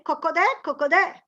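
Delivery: sing-song cocodè with rising ends; Italian hen call. Shown as a demonstration. Teacher giving the Italian hen sound, rising. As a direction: cackle it like a hen. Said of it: "In Italian".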